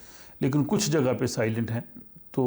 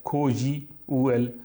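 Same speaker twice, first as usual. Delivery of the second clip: spelled out; slower than usual. Shown as a demonstration. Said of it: "ये जो लफ्ज़ के और जे इकट्ठा आ रहा है".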